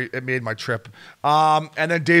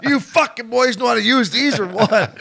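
pitched-up, punchy scolding question; mock gruff challenge; 8 semitones higher, 4 dB louder than usual. Man challenging players with condoms, mock scolding. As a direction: imitate a man challenging the boys, voice raised.

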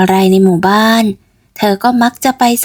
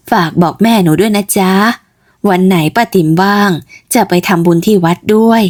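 put-on old auntie. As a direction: greet the neighbour girl like a kindly aunt. Aunt says goodbye. (ป้าติ๋มทักหนูเกด เสียงต่ำแบบหญิงสูงวัย)

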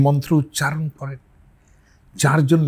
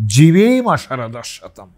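slow and a little louder; slower recitation; 4 dB louder, slower than usual. Shown as a demonstration. Teacher repeating the mantra for his listeners, measured. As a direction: say it once more, measured. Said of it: "শুনুন".

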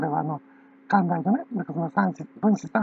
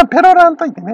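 Kansai dialect; 4 semitones higher, 5 dB louder than usual. Shown as a demonstration. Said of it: "ペロらないでね".

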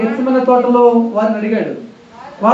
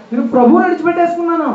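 higher and faster on the repeat; anguished repeat; 5 semitones higher, faster than usual. Shown as a demonstration. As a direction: push ప్రభువుని up high, rushing the line. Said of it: "ఎందుకంటే నేను ప్రభువుని విడిచిపెట్టేసుకున్నాను". (ఎత్తైన స్వరంతో, వేగంగా బాధగా)

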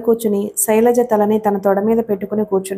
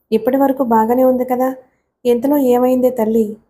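ordinary delivery, nothing marked

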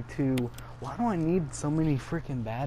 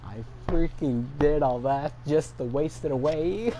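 raised, higher-pitched dismay; exasperated; 4 semitones higher, 5 dB louder than usual. Real, not acted. Gamer realising the effort was wasted, exasperated. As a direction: loudly lament all that wasted effort.

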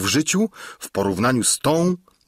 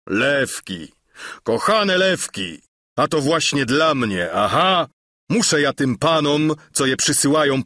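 lightly voiced bold knight, scoffing at danger; boastful knight; 4 semitones higher than usual. Don Quixote boasts, challenging lions. (dumny rycerz, lekko zagrany)

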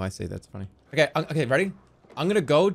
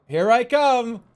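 loud, higher sing-song call; hide-and-seek seeker; 6 semitones higher, 6 dB louder, much slower than usual. Pretend. Seeker starting the search, loud and playful. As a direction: announce the search with a stretched-out flourish. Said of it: "we're gonna do that routine".

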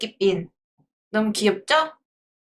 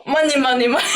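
excited cheer; 3 semitones higher than usual. Real, not acted. Cheering at first donation.

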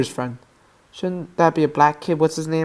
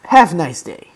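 FPS Russia. Acted. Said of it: "I just quote F P S Russia".

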